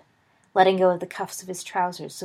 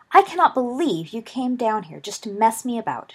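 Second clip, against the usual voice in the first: higher, louder burst of disbelief; indignant outburst; 4 semitones higher, 6 dB louder than usual. A narrator's reading. Lily thinks Remus is joking, indignant outburst. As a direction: burst out, offended and accusing. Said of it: "she burst out".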